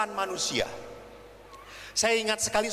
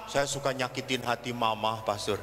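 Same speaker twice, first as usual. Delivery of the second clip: imitated tearful girl; 10 semitones lower than usual. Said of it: "kalau perempuan saya tanya".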